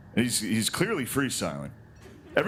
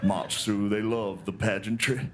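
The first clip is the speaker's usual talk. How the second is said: lower, dreamy old Southern gentleman, lightly voiced; Shelby Foote impression; 5 semitones lower than usual. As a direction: savor every word like a doting old Southerner. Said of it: "he's like".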